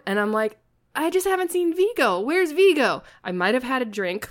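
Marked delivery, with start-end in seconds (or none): 0.9-3.0 high, loud whine of a deprived fan; tipsy loud blurting. Retold or imitated. Fan complaining to Jen at the bar after a drink, loudly. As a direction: blurt it out too loudly, pitched way up. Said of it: "I said it kinda loudly".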